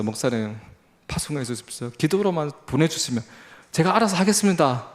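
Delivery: retold plea, pushing harder word by word; insistent begging. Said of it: "정말 때를 쓰면서".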